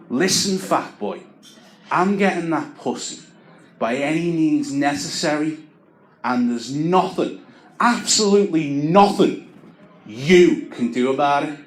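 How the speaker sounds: lightly voiced meathead menace; menacing lad. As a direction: lean in and threaten, building. Lad threatening the speaker.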